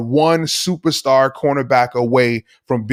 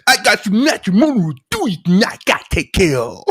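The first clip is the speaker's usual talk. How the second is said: very high, fast squeaky voice with a laugh; Philly five hundred impression; 7 semitones higher, faster than usual. Host keeps imitating the YouTuber, laughing. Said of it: "I always wanted to do a Philly five hundred person nation".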